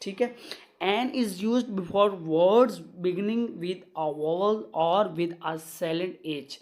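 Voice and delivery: very slow, word-by-word classroom reading; measured dictation of a grammar rule. Shown as a demonstration. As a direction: dictate the rule so students can write it down. Reads grammar rules as dictation.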